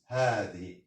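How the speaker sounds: هذه with a long first "haa"; pronunciation demo. Shown as a demonstration. Teacher contrasts spelling with sound, هذه said with long "haa". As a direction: hold the opening vowel of هذه. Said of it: "mais se prononce".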